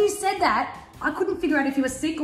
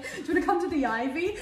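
"come to the Ivy" pitched high as a question; high, tentative asking tune on "Do you wanna come"; questioning invitation; 7 semitones higher than usual. Retold or imitated. Friend recalling an invite, "come to the Ivy" asked high. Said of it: "with, like, so many question marks after it".

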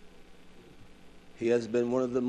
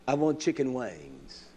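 drawn-out take; slower than usual. Shown as a demonstration. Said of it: "I don't want no wings".

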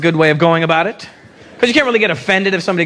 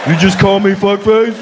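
mock indignant; 3 dB louder than usual. Pretend indignant driver reply.

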